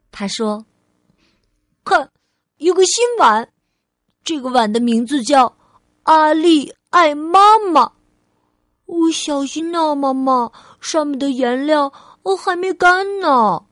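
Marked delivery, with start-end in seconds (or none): 1.9-13.7 put-on higher, louder excited child; eager childlike announcement; little girl Ali, proud. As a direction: show off your handmade gift. Child proudly presents new bowl.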